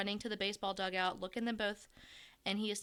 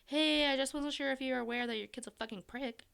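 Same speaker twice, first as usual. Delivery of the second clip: fake blunt reading; 5 semitones higher than usual. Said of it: "That's not what it said".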